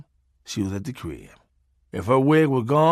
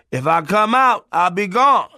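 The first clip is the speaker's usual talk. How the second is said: uncle through door; 7 semitones higher, 5 dB louder, slower than usual. Retold or imitated.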